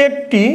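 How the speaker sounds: একটি said "ekti", narrow first vowel; closed e vowel. Shown as a demonstration. Teacher repeating the example for students, closed e. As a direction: give একটি a clear closed "e" at the start. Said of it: "এর উচ্চারণটা একারের মতো হচ্ছে".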